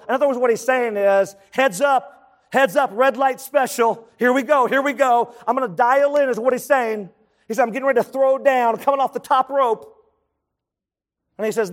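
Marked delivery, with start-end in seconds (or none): 1.5-6.3 higher-pitched, punchy alert; urgent heads-up. Acted. Preacher paraphrases Joshua to the tribes, urgent heads-up. 7.6-10.0 higher, quick build-up; hyped warning. Acted. Preacher has Joshua coming off the top rope, hyped warning. Paraphrasing Joshua, wrestling-style hype.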